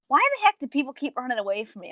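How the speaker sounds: lightly mocking impression of a confused vampire mistress; mock clueless vampire. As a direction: voice the Countess as innocently baffled, in a different timbre. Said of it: "immediately be like".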